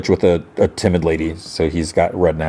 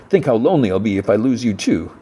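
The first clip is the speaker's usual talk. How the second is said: mildly mock-plaintive, slightly higher; a little sarcastic; 4 semitones higher than usual. Retelling a man's jab at timid Minsu, a little sarcastic. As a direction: lay on a touch of false self-pity. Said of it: "he's a little sarcastic".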